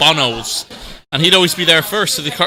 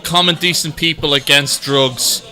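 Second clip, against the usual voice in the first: reading a sign; slower than usual. Retold or imitated. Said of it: "protest saying".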